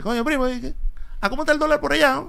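high, loud, laughing cousin; naive cousin voice. Retold or imitated. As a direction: primo ingenuo, agudo y fuerte.

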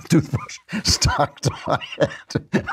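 fighting back giggles mid-read; trying not to laugh. Real, not acted. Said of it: "I'm losing it".

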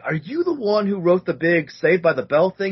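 mock fan voice; fan's question. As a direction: gush like a starstruck fan. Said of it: "he's like".

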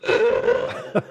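unvoiced reaction noise with laughter; exaggerated retold groan; mock groan. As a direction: let out an amused "ugh". Reacting to caller's answer in retelling.

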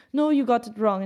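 lightly imitated Russian accent at speaking pitch; slight Russian accent. Foreign minister correcting his American counterpart, in a tiny Russian accent. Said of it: "he has a tiny accent".

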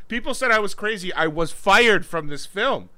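mock acceptance speech. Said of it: "give an acceptance speech for my movie".

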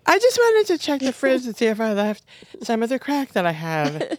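lightly voiced creepy visitor; Barbara voice. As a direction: call out coyly at the window. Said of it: "Julie does Barbara".

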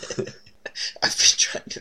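put-on slow, breathy whispered child. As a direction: whisper it slowly like a creepy child. Narrator voices creepy girl.

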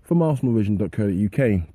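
stuffy voice from a heavy cold; man flu. Real, not acted. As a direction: talk through a bad cold. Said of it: "If my voice sounds a bit funky today".

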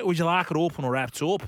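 lightly imitated Scouse accent. Takeaway lady repeating herself to a customer, imitated Scouse accent. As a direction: repeat the question in mock Scouse. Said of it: "in the strongest Scouse accent".

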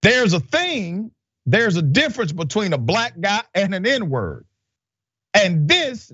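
lightly mocking jailer impression, pitched high; high-voiced take on a jailer; Paul Watkins. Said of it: "Okay, this is how he talks".

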